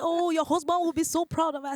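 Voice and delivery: high, loud cheery doctor; mock doctor voice. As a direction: gush like a pleased doctor.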